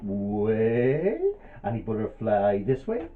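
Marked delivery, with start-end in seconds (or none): 0.0-1.2 rising swoop. Acted. Voices the backflip swoop.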